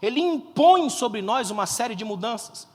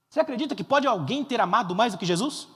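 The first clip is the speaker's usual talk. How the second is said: ordinary delivery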